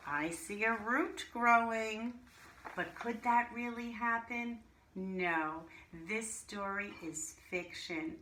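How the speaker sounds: lively storybook reading to a class; reading to children. Acted. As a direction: read it like a teacher sharing a picture book. Reads a picture book aloud to class.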